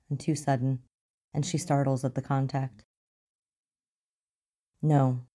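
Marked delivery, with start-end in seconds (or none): 4.8-5.3 through clenched teeth. Acted. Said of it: "he says through clenched teeth".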